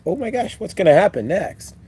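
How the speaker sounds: put-on high gasping kid thrill; childlike excitement. Remembering a child's night before vacation, excited. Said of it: "That excitement, like".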